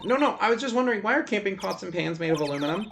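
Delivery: lightly voiced curious assistant.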